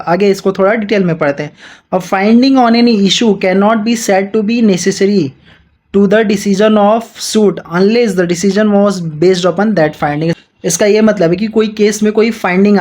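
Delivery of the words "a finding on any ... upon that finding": slow, deliberate reading of the statute; measured textbook read-aloud; slow legal reading. Acted. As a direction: dictate each clause slowly to students. Reads the legal text aloud.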